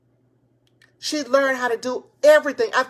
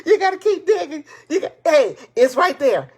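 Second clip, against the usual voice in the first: laughing; 3 semitones higher, 6 dB louder than usual. Real, not acted. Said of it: "I'm excited, y'all".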